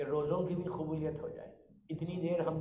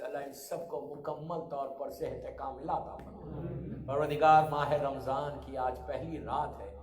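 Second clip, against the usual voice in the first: hushed supplication. Real, not acted. Preacher praying for the sick and departed, subdued supplication. Leads supplication after the lament.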